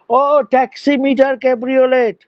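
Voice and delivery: mock taxi hail. Teacher shows students the unshortened hail, mock calling. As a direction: hail a cab with a laboriously full title.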